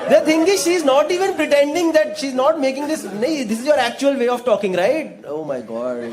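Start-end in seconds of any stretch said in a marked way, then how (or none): 0.6-5.1 slow, deliberate teasing. Real, not acted. Host teasing the daughter about her accent, slow. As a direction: spell it out slowly, amused. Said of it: "host teasing slowly".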